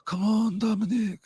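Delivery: a hint of a pleading fan. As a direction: urge him on, lightly mocking. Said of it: "I was like".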